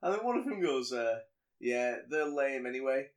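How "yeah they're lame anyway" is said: put-on gang girl sneering. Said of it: "she says".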